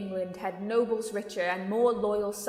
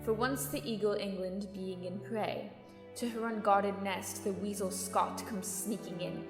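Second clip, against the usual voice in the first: measured and softer, as quoted verse; quietly recited saying; 6 dB quieter than usual. Acted. Adviser quoting an old saying to the king, quietly recited. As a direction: recite the old proverb softly.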